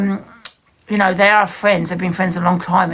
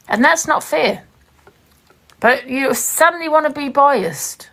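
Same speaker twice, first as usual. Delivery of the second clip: heated complaint; 6 semitones higher than usual. Real, not acted. Heated argument with host.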